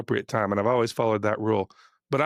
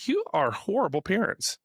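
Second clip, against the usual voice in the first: higher, slower mock outrage; retold indignant scolding; 5 semitones higher, slower than usual. Tennis dad rebukes the screaming fans, higher and slower in retold indignation. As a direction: scold them like an offended parent, drawn out.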